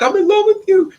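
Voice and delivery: very high, loud imitated wail of love; mock crying confession. Mimicking a crying man declaring love, high mock wail. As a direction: wail it like a heartbroken, crying lover. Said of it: "Now he's crying".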